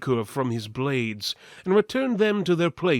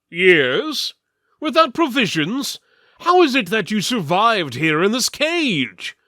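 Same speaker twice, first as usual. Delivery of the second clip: high, loud disbelieving questions; a thick sellsword baffled; incredulous mercenary; 8 semitones higher, 7 dB louder than usual. Acted. Mercenary questions the caged skeleton in disbelief, high and loud. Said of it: "the mercenary asked".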